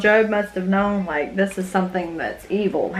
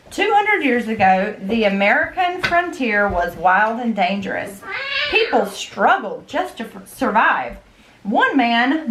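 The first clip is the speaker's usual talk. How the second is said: story narration. Acted. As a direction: read the history story to the kids. Reads a history book aloud to kids.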